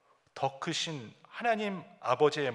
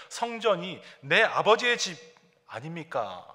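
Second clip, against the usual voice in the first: higher, louder protesting claim; protesting son; 3 semitones higher, 5 dB louder than usual. Retold or imitated. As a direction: insist the temple is his father's house. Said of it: "마치 항의하듯이". (항의하듯 힘주어 말하는 아들)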